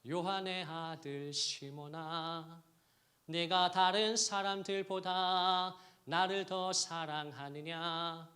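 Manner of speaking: slow, gentle asking; tender question. Acted. Jesus gently asks Peter. (베드로에게 다정하게 천천히 묻는 주님처럼)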